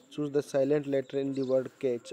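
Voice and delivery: each word read out slowly and clearly; slow dictation. Shown as a demonstration. Teacher reading the question slowly to the class.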